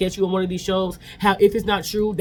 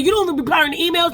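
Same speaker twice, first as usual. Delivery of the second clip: much higher, louder angry retort; going off; 14 semitones higher, 4 dB louder than usual. Retold or imitated. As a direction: snap back high and loud, fed up. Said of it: "she gotta go off on him".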